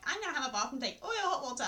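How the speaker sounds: quick, laughing imitation of a sibling; mocking imitation. Mimics sibling's jab, half laughing.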